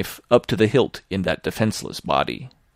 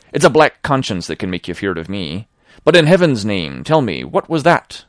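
a lightly voiced sailor, fearful and urgent, louder at the end; frightened honest sailor; 4 dB louder than usual. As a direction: demand an answer, scared. Narrator voices Tom.

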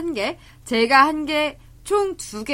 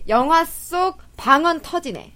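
title announcement; 4 semitones higher, 5 dB louder, slower than usual. Shown as a demonstration. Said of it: "announcing the corner title".

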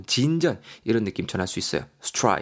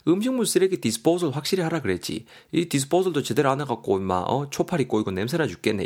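acted grumble, starting higher; grumbling complaint; 3 semitones higher than usual. Husband complains to his partner about the food waste, mock grumbling. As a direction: grumble like a nagging partner, half in play. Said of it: "야도 지금 불평불만이 있는 거죠".

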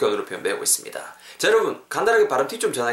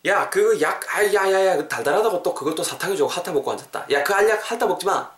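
higher-pitched, fussing telling-off; exasperated scolding; 6 semitones higher than usual. Acted. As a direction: scold someone for licking a pill. Acted scolding of candy-like pill licker. (답답해서 나무라는 말투)

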